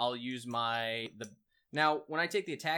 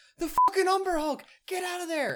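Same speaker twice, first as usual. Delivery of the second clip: very high-pitched, loud yell; 8 dB louder than usual. In a game, as the character Kira, calling a warning to Matt, yelling. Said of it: "And I'm yelling to Matt".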